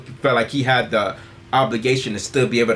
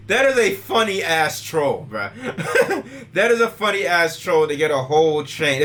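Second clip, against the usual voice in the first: laughing; 4 semitones higher than usual. Real, not acted. Laughing at Jake Paul troll.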